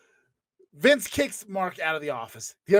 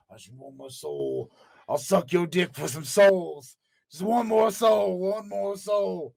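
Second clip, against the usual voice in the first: slow, lightly voiced Undertaker plea; begging for souls; 2 semitones higher, 4 dB louder, slower than usual. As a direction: drag the words out like a desperate addict. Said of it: "Undertaker begging for souls".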